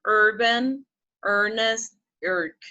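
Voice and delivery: "urban, earnest, irk" said singly as list words; careful, separated "urban, earnest, irk" with clear "er"; model pronunciation. Shown as a demonstration. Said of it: "I'm going to be saying, pronouncing".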